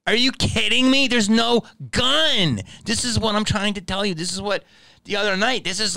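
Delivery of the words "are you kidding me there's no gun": imitating the third cop.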